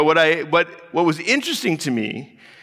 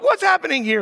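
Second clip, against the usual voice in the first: high, raised demand; stern demand; 12 semitones higher than usual. Retold or imitated. Dad demanding answers from his kids, raised and high. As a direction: call out sharply to the kids. Parent confronting fighting kids.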